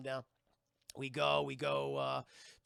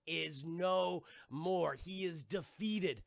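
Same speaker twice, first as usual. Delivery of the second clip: slow, measured announcement; mock-solemn declaration of defeat; solemn pronouncement; slower than usual. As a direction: space the words out gravely. Solemn announcement of villain's death.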